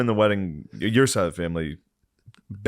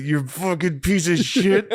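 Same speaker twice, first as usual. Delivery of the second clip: higher, slow hammed-up insult; mock roast insult; 9 semitones higher, slower than usual. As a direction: drag out a fake tough-guy jab. Acting out his roast insult.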